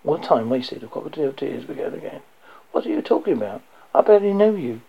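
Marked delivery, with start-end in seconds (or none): 2.7-4.8 wheezy put-on sobs, voice jumping higher and louder; fake sobbing. A narrator's reading. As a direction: fake a wheezing cry to win sympathy. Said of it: "she wheezed out between fake sobs".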